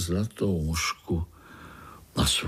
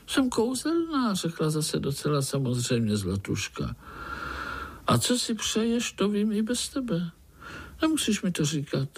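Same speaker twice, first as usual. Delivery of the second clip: much higher, sweet fairy-tale voice; magic golden fly; 7 semitones higher than usual. Acted. Golden fly offering the spider a wish, high and sweet. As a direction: promise a wish like a tiny fairy.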